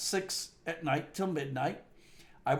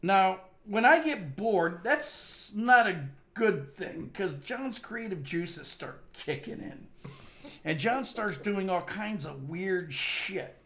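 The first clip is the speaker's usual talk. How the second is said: slow ominous buildup; slower than usual. Acted. Mock-ominous buildup about getting bored.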